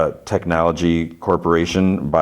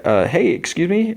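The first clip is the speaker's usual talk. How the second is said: high squeaky imitation of the man's greeting; mock polite high voice; 13 semitones higher than usual. Guy greeting Tim in a mock high voice. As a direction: pipe it up high, faux-polite. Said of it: "He's like".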